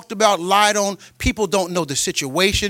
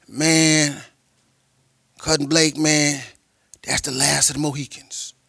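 a hint of the hood cousin, pitched lower; lightly voiced hood cousin; 6 semitones lower, slower than usual. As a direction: drop low and slow the cadence with pauses. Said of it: "who's a hood rat dude".

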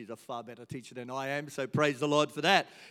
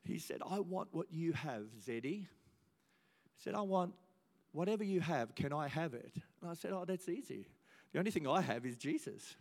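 put-on softer, hushed retelling of the boy's plea; hushed tender retelling; 10 dB quieter than usual. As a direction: draw them into the moment quietly. Tender retold dialogue, hushed.

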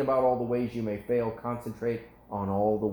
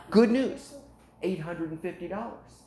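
excited salesman; 7 semitones higher than usual. Retold or imitated. Seller returning to the customer with a price, excited. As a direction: imitate a seller triumphantly back with an offer. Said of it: "the Israeli gets excited while they're selling".

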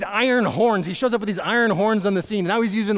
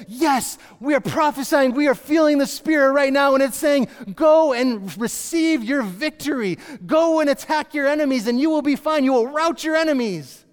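excited prophets; 5 semitones higher than usual. Retold or imitated. Prophets urging the kings to attack, excitedly. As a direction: hype them up like a room of zealots. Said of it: "they're all excitedly saying".

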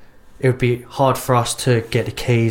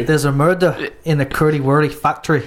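attempted Scottish accent that comes out Irish; Scottish accent that slips into Irish; failed Scottish accent; 3 semitones higher than usual. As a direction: aim for Scottish, land on Irish. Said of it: "That was fucking Irish".

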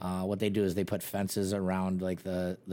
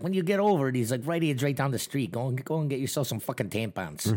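raised mock taunt; mock boss taunt; 5 semitones higher than usual. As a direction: needle him like the boss.

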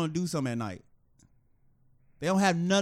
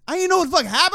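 much higher and louder, laughing through it; laughing disbelief; 13 semitones higher, 12 dB louder, faster than usual. Real, not acted. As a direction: laugh while you say it. Retelling getting punched, laughing.

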